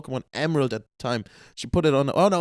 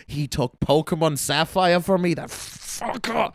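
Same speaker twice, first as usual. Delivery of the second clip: mock childhood outrage; 3 semitones higher, slower than usual. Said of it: "I was like".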